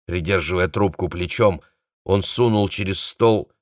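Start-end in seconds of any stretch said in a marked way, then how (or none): none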